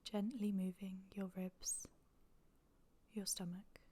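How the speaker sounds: normal talking voice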